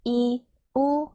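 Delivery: very slow, evenly spaced kana drill; chant-like slow row recital; syllable-by-syllable recitation. Shown as a demonstration. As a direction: model each syllable for learners, held and separated. Teacher models the wa row.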